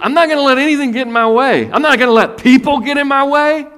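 shouted, high, fierce resolve; loud determined vow. Acted. Woman's determined vow, acted.

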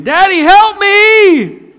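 high, loud, slow mock child's cry; imitated child scream. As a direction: wail for daddy like a little girl. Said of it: "my daughter's in there screaming".

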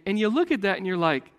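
normal talking voice

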